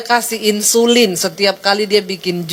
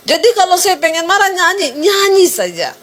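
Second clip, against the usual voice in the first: emphatic preaching; 7 semitones higher than usual. Real, not acted. Preacher repeats the advice emphatically.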